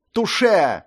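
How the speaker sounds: high, loud fencing cry; triumphant exclaim. A narrator's reading. Ashley exclaiming after a hit, triumphant. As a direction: crow over the hit. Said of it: "воскликнул Эшли".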